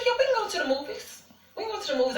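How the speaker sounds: high, light sing-along agreement, put on; feigned agreeableness. Acts out feigned agreement to boyfriend.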